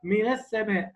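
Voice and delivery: "من" in "من السماء" with a light nasal hum on the noon; "من السماء" بغنة خفيفة; ghunna demo. Shown as a demonstration. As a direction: let the noon of "من" buzz in the nose. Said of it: "حط إيدك كده".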